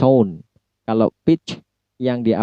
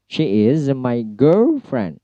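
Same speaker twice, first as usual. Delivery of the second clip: put-on "girlfriend" with GIRL drawn out on a high tone; much slower than usual. Shown as a demonstration. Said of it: "high tone atau nada tinggi yang ditempatkan pada kata girl". (nada tinggi pada "girl" dalam "girlfriend")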